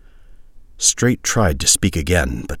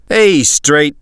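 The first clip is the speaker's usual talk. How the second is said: higher, louder buddy voice; soldier voice; 10 semitones higher, 7 dB louder than usual. A narrator's reading. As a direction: call out to a friend. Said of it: "said the purple-armored man".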